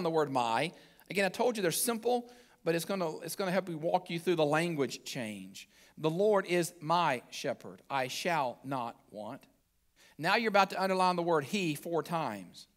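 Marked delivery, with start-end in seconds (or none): 6.0-9.4 slow, measured psalm reading; unhurried reading, settling lower and slower at the close; scripture reading. Acted. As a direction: read scripture deliberately, word by word. Reads the psalm aloud.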